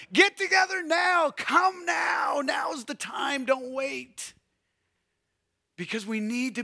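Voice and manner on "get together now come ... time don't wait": ringing shout of a prophet calling people together. Acted. Preacher calling the congregation to come now, urgent shout. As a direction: cry it out to the crowd, urgent.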